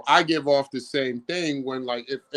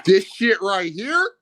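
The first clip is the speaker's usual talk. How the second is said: hood voice; 2 semitones higher, 3 dB louder, slower than usual. Pretend. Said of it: "my hood voice".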